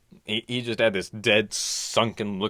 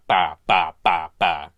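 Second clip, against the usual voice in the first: dribbling sound; 4 semitones lower, 6 dB louder, slower than usual. Retold or imitated. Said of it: "sounded like ba".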